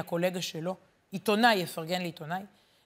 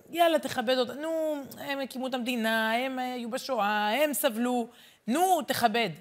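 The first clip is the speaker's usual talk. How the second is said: higher-pitched mock pleading to show respect; pitying nag; 4 semitones higher than usual. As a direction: nudge impatiently, as if guilting someone into it. Voicing a pitying nag to respect elders.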